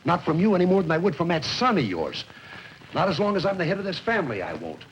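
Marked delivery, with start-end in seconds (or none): 4.4-4.8 muttered. Acted. Bitter repeat of son's words.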